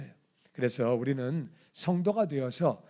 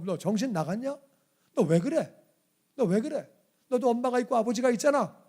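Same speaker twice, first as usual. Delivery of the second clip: mock scolding; 5 semitones higher than usual. Imagined scolding of the woman.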